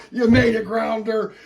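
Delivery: high, loud congratulation; triumphant cheer to a son; proud, excited dad. Acted. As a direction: burst out with pride. Dad congratulating son after letter.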